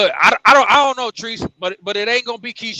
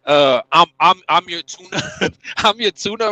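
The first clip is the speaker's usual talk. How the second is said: lower, louder mock of Ryo, voice put on; 3 semitones lower, 4 dB louder than usual. Mocking Ryo to the crew, lower and louder put-on voice. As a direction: ham up a meek fighter offering himself up. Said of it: "when Ryo fucking said".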